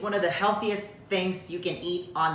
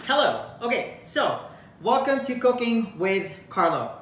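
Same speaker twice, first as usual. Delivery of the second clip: cooking show host; 4 semitones higher than usual. Pretend. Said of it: "Just kidding. This is not a cooking show".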